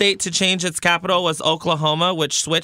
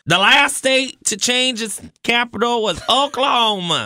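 mock southern accent; 6 semitones higher than usual. Intern reads his fact in a put-on Southern accent. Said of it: "give me a southern accent so I can copy it".

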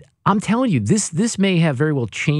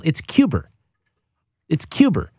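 mock British Cuba; 3 semitones higher than usual. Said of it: "make fun of him".

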